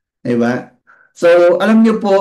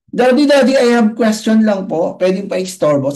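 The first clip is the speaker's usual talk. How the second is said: put-on child's voice; 5 semitones higher than usual. Child asks father.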